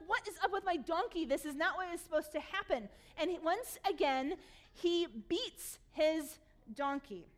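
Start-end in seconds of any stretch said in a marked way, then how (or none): 0.1-2.9 higher-pitched mock indignation; mildly acted angry complaint. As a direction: act out Balaam's exasperation, not too heavily. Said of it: "He is so angry".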